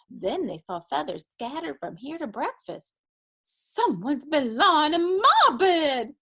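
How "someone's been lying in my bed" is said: slow, louder, higher mama bear; middle-sized mama bear. A narrator's reading. Mama bear finding feathers scattered, slow middle-sized outcry. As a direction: voice a mama bear lightly, dragging the words. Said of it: "said the mama bear in her middle-sized voice".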